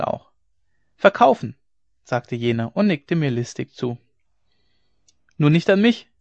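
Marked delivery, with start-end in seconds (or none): 1.0-1.6 high, loud one-word reply; called answer. A narrator's reading. Dealer answering the rider's question, calling back. 5.4-6.1 high, loud, jolly retort; merry call. A narrator's reading. Rider jokingly turning down the horse dealer, merrily calling out. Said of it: "rief ich lustig".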